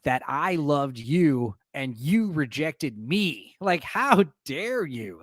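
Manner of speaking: slow, drawn-out mock indignation; a touch of wounded theatrical anger; mock outrage. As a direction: stretch out each hurt word, hammed-up. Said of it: "Morwood gets really upset is like".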